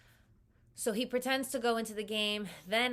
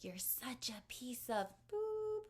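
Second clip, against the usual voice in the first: imitating his yell; 6 semitones higher, 4 dB quieter, slower than usual. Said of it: "he's yelling at this point".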